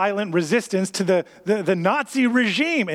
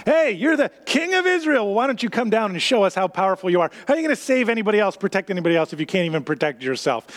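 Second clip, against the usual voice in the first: mock taunting; faster than usual. Religious leaders challenge Jesus on the cross, mock taunting. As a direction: heckle him in a rapid, lightly acted taunt.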